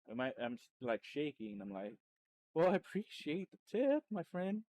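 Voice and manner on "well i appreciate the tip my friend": mock-formal thanks. Retold thanks after big tip.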